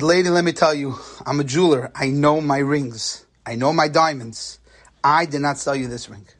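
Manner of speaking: a lightly voiced jeweler setting her straight; insistent jeweler. Jeweler firmly tells the bride he didn't sell her the ring.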